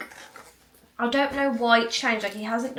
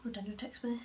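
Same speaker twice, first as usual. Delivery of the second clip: ordinary talk, nothing marked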